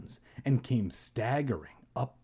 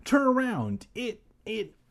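frightened scream; 10 semitones higher than usual. A narrator's reading. Boy warning his uncle about the mummy, frightened cry. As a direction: cry out, then falter in fright. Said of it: "I finally managed to scream".

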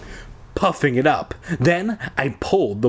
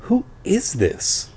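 demanding; 7 semitones higher, slower than usual. A narrator's reading. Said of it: "I demanded".

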